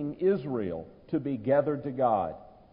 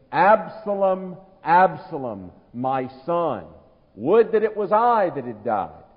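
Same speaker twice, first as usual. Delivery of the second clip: heartbroken cry; 5 dB louder than usual. Retold or imitated. Preacher voicing David grieving his dead son, louder heartbroken lament. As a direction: call out the son's name like a breaking heart, imitating. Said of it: "his heart breaking".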